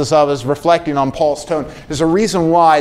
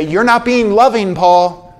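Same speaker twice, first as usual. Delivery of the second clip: critical churchmen; 4 semitones higher than usual. Retold or imitated. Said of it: "a few men there who would say".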